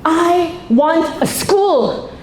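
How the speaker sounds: very slow, emphatic tongue-in-cheek demand; mock demand. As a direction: spell out the outrageous wish slowly.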